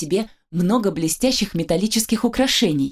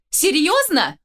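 higher, indignant question; raised voice; 8 semitones higher, slower than usual. A narrator's reading. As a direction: raise the voice in disbelief. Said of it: "Теперь я повысила голос".

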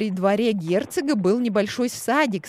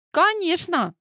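eager exclamation; 9 semitones higher than usual. Acted. Heroine hastily bluffs.

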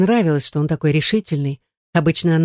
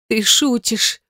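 higher, croaked question; croaked disbelief; 6 semitones higher, much slower than usual. A narrator's reading. Her throat suddenly dry at his confession, croaking. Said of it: "прохрипела она".

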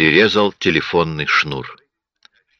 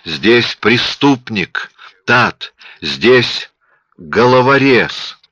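pained terror; 5 semitones higher, much slower than usual. A narrator's reading. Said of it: "Боль и ужас".

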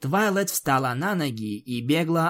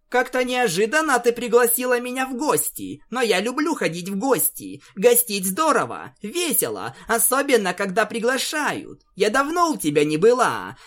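high, bubbly pony voice; chirpy and delighted to visit; cheerful Pinkie Pie; 8 semitones higher than usual. Acted. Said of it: "обрадовалась Кудряшка". (радостный высокий голос Пинки)

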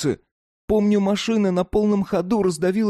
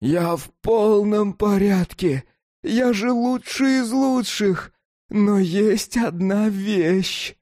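put-on slow, begging child voice; pleading; slower than usual. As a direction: plead with the light, slowly. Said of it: "Умоляюще протянул руки".

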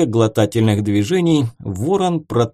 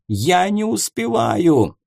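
slow, higher panicked cry; 7 semitones higher, slower than usual. Acted. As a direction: plead that time is running out. Panicking ghost.

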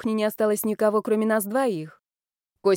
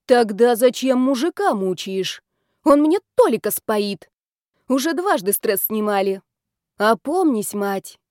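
stern; 2 semitones higher, 4 dB louder than usual. Acted. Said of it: "сурово закончила она".

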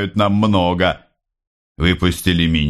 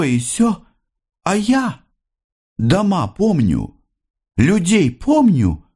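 higher, sorrowful mother remembering years of beatings; mother's mournful, higher lament; aging mother's confession; 9 semitones higher than usual. Acted. Mother recounts her hard life.

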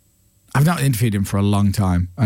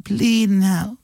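drawn-out, higher Dublin "bleeding hell"; Dublin vernacular; 9 semitones higher, much slower than usual. Shown as a demonstration. Host demonstrating Dublin swearing, in a Dublin accent. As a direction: stretch the curse in a Dublin accent. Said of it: "with the Dublin vernacular".

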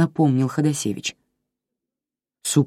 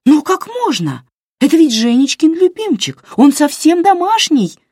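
much higher and louder, upset; throwing up her hands in dismay; dismayed outcry; 14 semitones higher, 7 dB louder than usual. A narrator's reading. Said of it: "всплеснула руками Вера". (намного выше и громче, в отчаянии)

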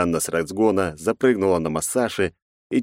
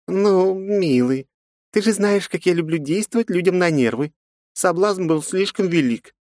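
femme fatale; 13 semitones higher than usual. Acted. Жанна дразнит Масаши.

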